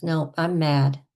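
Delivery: played-up indignation; pretend anger. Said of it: "we're gonna go over the top".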